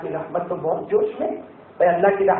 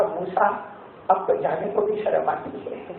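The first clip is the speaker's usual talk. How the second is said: tearful; 5 dB quieter than usual. Acted. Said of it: "روتے روتے کہا".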